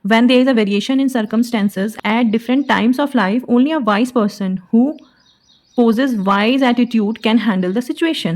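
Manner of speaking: slow, measured, word by word; slow dictation of a sentence. Shown as a demonstration. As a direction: dictate the example sentence slowly. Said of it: "slow English sentence".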